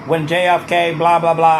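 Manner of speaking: put-on light Kennedy accent; a lightly voiced JFK speech; weak Kennedy imitation; JFK impression. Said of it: "like, a John F. Kennedy".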